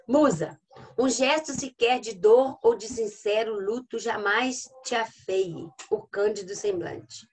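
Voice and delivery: slow, drawn-out verse reading; poem recitation. Acted. Teacher showing enjambment in a poem, slow recitation. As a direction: carry the phrase across the line break, slowly.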